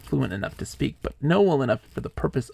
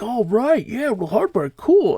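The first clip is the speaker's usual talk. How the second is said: high, sarcastic sing-song, higher; mock sarcasm; 10 semitones higher, 7 dB louder, slower than usual. Mocking the upset guy's sarcastic brush-off. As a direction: drip fake enthusiasm. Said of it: "he was like".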